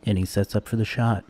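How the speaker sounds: lightly voiced golf commentator, drawing out the final call; golf announcer. Streamer mock-commentating their own shot, golf announcer voice. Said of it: "That's my golf announcer voice".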